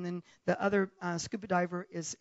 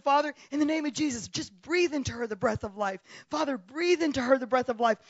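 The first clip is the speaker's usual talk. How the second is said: forceful, raised praying; urgent retold prayer; 3 semitones higher, 4 dB louder than usual. Retelling praying over a drowned woman, urgent prayer. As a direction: pray it with insistence, a little louder. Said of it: "praying like a wild woman".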